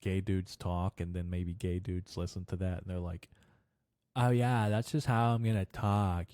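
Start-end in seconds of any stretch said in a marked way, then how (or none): 4.2-6.3 put-on Hollywood gay-man caricature; stereotyped gay voice. Comedian mocking movie-influenced speech, stereotyped gay voice. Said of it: "it's portrayed in Hollywood movies like that".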